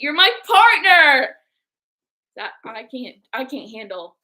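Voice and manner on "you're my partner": emotional thanks. Real, not acted. Teasing then sincere praise.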